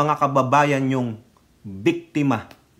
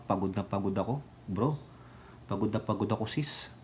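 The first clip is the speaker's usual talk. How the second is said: much softer, whiny "Pagod na pagod ako"; mock complainer; 6 semitones lower, 13 dB quieter than usual. Commentator mocking tired officials who complain, soft whiny voice. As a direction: mimic a spoiled official moaning. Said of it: "magrereklamo ka ba".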